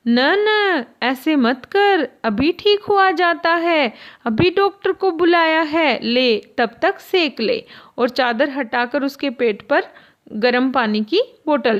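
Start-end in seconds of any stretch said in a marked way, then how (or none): 0.1-7.6 coaxing mother. Acted. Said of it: "पुचकार कर बड़े ही प्यार से, स्नेह से कहती है".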